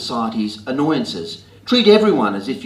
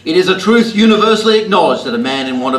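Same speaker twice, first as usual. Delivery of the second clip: Jane Austen English; 7 semitones higher, 7 dB louder, faster than usual. Pretend. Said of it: "Or to the person pushing in".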